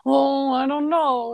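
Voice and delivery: slow, hesitant banker voice; lightly voiced fretful banker; nervous banker. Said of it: "the banker's very nervous".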